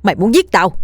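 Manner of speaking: affronted, accusing retort; indignant denial. Acted. Old man denying he killed the girl, indignant. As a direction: deny it and throw it back. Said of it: "Lão Linh vẫn lắc đầu chối bỏ".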